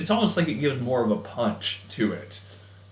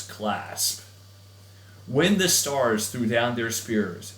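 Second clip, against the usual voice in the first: emotional poem reading. Shown as a demonstration. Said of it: "hopefully I didn't come across as too corny reading that".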